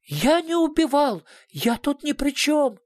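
the director protests to the investigator, high and frantic; desperate denial. A narrator's reading. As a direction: cry out innocence in panic. Cornered suspect desperately denies.

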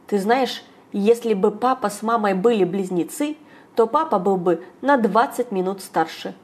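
plain reading voice

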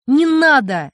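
put-on boy crying out to his mother; shout. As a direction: cry out to stop her. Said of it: "Потом крикнул".

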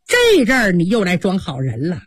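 a sharp spit of contempt, then fast scolding; spitting anger. Acted. Wang Xifeng berating the maid for warning her too late, furious. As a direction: scold her with disgust and rising fury. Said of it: "凤姐用口啐她".

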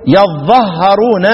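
يظهرون with the doubled ظ, slowly; shortened reading. Shown as a demonstration. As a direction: recite يظهرون slowly, stressing ظ. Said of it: "لا، هناك يقرأ إيه؟". (قراءة يظهرون ببطء)

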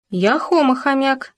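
high little squeak; squeaky nibbling hamster. Acted. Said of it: "пискнул Хома".

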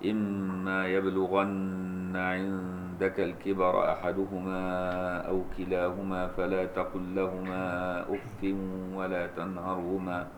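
slow melodic chanted recitation; Quran recitation. Acted. Teacher recites the passage for the student, slow chanted tajweed. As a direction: draw each phrase out in tajweed chant.

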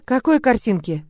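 ordinary delivery

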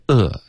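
"呃" as a plain schwa; neutral schwa sound. Shown as a demonstration. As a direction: sound "呃" on its own, unrounded. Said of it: "是发一个呃的音". (把"呃"发成单独的央元音)

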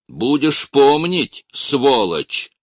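loud furious threat, drawn out; angry shout. A narrator's reading. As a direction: lash him with the words. Officer whipping seminarian.

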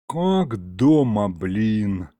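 slow, lazy drawl. A narrator's reading. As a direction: stretch it out, full and content. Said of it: "лениво протянул".

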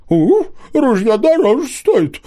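очень высоко и громче, медленно, с уханьем; ухнуть как сова, протяжно; ухающая сова. A narrator's reading. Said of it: "ухнула сова". (сова ухает в ответ Алисе, высокий голос птицы)

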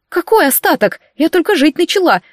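высоко, с мягким возмущением; обиженно возмутиться, звонко; возмущённо. A narrator's reading. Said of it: "возмутилась я". (возмущённо, выше обычного)

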